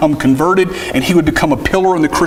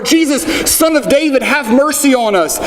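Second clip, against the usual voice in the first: higher, more urgent plea; crying out more; 8 semitones higher than usual. Retold or imitated. Bartimaeus calls after the procession, a higher, more urgent plea. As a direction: cry it out more urgently, pitched high. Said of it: "they cry out all the more".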